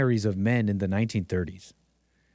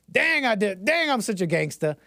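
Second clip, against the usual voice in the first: boastful gangsta Wilson; 7 semitones higher than usual. Retold or imitated. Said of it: "He's like".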